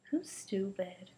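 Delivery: slow whispered "who's stupid"; whispered challenge. Acted. Kids trading insults.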